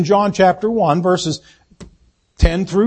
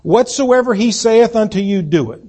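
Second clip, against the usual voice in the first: raised preaching voice on scripture; 3 semitones higher than usual. Acted. Pastor proclaiming scripture to the congregation, raised. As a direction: proclaim it from the pulpit.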